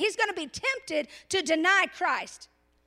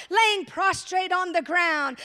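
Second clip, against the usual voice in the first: mock fervent shout; 5 dB louder, slower than usual. Mock-ideal disciples, shouted.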